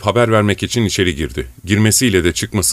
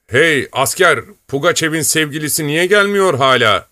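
a hint of a jovial officer, higher; lightly voiced officer Zurin; 5 semitones higher than usual. Zurin teases then orders soldiers, lightly voiced. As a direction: play the swaggering officer giving orders.

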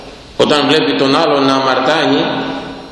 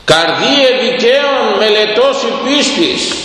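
higher, slow solemn reading of the verse; slow intoned verse; 8 semitones higher, slower than usual. Acted. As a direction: intone it like a chanted psalm. Scripture verse intoned again.

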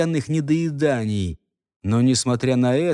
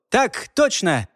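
a touch of a clipped private's reply; crisp soldier reply; 6 semitones higher, slower than usual. A narrator's reading. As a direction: answer like a dutiful subordinate. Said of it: "в той же манере ответил ему подчинённый".

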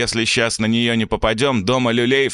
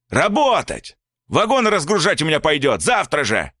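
furious father; 9 semitones higher than usual. A narrator's reading. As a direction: rage at the boy, then turn on the mother. Father shouting at mother.

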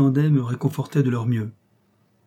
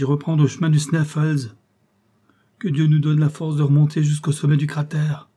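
higher and louder, pleading exclamation; urgent cry; 4 semitones higher, 5 dB louder than usual. A narrator's reading. Nephew pleading to climb back to the crater, urgent cry. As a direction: keep crying out, raised and insistent. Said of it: "m'écriai-je".

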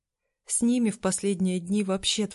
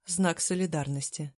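ordinary delivery, nothing marked

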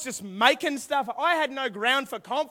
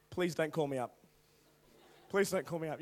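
low, soft nervous mutter; hushed pleading; 9 semitones lower, 10 dB quieter than usual. Acted. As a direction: plead under your breath not to be picked. Silent plea dreading being called on.

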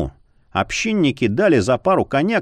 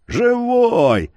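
joyful exclamation; 9 semitones higher than usual. Acted. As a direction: shout it with glad relief. Innkeeper greets returned friend.

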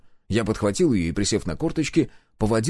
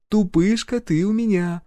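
slow, higher, affectionate tease; fond teasing through a smile; wife teasing her husband with a smile; smiling; 10 semitones higher than usual. Acted. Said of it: "улыбнулась Гюрза".

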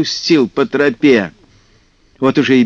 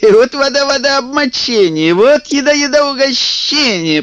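high, gleeful sing-song; merry kikimora voices; 10 semitones higher than usual. A narrator's reading. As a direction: bounce it like cheeky swamp sprites. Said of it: "подхватили весёлые голоса".

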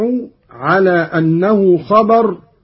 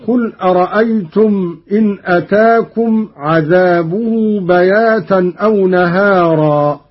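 Quran recitation. Acted. Teacher reciting the verse for students, measured chant.

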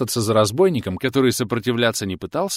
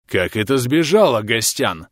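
hoarse. Acted. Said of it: "прохрипел он".

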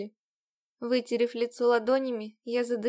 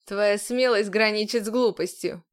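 scornful sneer; 2 semitones lower, 3 dB louder than usual. A narrator's reading. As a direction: sneer the words down at her. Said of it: "пренебрежительно усмехнулся он".

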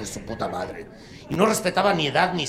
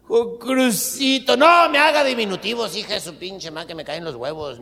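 mock soap voice; 6 semitones higher, 5 dB louder than usual. Soap character pleads.

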